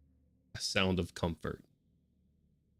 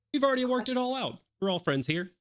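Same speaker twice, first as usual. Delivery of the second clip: character voice; faster than usual. Acted.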